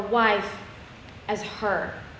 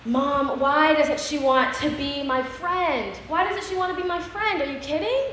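put-on childlike distress; 5 semitones higher than usual. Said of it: "and I said".

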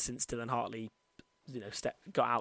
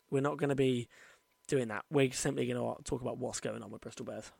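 talking with retainers in; wearing a retainer. Real, not acted. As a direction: speak around dental retainers. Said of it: "I also have my retainers in right now".

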